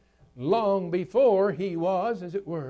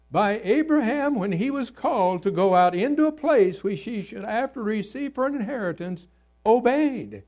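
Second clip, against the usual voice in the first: raised voice, quickening through the long clause; emphatic scripture reading; 5 semitones higher, 5 dB louder, faster than usual. Real, not acted. Preacher quoting Hebrews on Abraham's call, emphatic reading. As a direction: declaim the verse briskly, landing firmly at the end. Reads scripture aloud to congregation.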